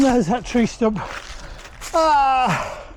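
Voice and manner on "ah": pained groan. Real, not acted. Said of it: "that hurts".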